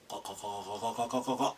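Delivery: qa qa said softly and quickly in a run; whisper-drill qa, qa with mouth slightly open; quiet repeated qa drill. Shown as a demonstration. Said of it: "drilling the qa sound".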